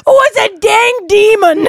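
laughing mock panic; excited shout. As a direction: yell it out, half laughing. Hammed-up panicked demon bit.

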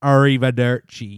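slow hammed-up Italian accent. Shown as a demonstration. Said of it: "I need to do it in the proper Italian accent".

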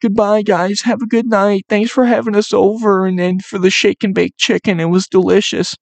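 high, sugary guest voice, mock-polite; overly polite goodbye. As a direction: play the prim guest thanking the hosts. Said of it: "and you say".

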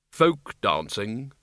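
slow, tired Death voice; weary grim reaper voice. Acted. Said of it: "said Death wearily".

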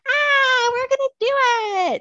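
high, squealing and giddy; giddy excited. Retold or imitated. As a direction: cheer it out in a high voice. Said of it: "And we're like".

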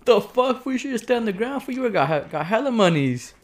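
mock uncle yelling. Nephew retelling, uncle yelling high in mock panic. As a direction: play the uncle freaking out after the crash. Uncle voiced in retold crash.

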